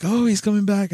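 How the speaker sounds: high-pitched imitation of excited fans; mock excitement.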